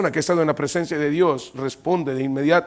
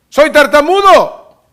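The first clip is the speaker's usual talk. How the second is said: loud, slow, higher protest; pleading excuse; 9 semitones higher, 10 dB louder, slower than usual. Acted. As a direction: drag out the excuse. Moses pleads his excuse.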